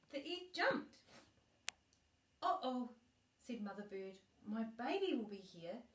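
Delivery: gentle storybook reading voice; reading to a child. Acted. Grandma reading a bedtime book to her granddaughter, gentle storybook voice.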